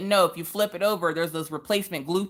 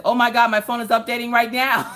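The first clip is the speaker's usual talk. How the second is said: laughing panic; 6 semitones higher, 4 dB louder than usual. Acted. Reading panicked chat comment.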